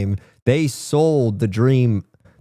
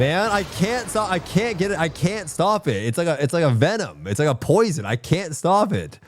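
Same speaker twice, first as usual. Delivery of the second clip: country accent; 5 semitones higher than usual. Real, not acted. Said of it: "talk like in this country accent".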